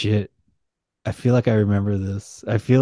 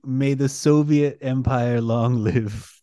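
slow, laughing Soviet salute; laughing mock toast; much slower than usual. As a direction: declare it slow through a laugh.

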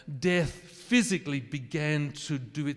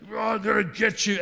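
higher, louder hammed-up menace; mock angry threat; 7 semitones higher, 6 dB louder than usual. Preacher mocks the wrathful Father, hammed-up loud threat. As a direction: play the vengeful father, half in jest. Father with lightning about to strike.

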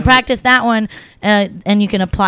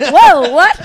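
louder, higher startled reaction; mock shock; 4 semitones higher, 6 dB louder than usual. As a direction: imitate onlookers taken aback. Retold reaction of shocked onlookers.

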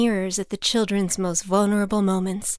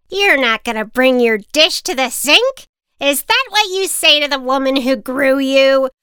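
put-on louder, indignant old lady; scolding old woman; 5 semitones higher, 6 dB louder than usual. Hired old woman scolding a child at home, louder. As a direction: lecture the child with outrage.

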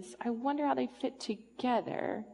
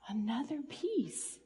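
soft wondering whisper; 4 dB quieter than usual. Acted.

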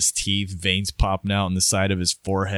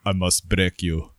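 Drago impression; 2 semitones lower than usual. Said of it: "Dolph Lundgren in Rocky".

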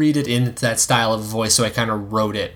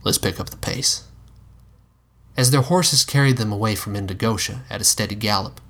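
cowboy voice. Acted. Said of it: "I appreciate your cowboy voice".

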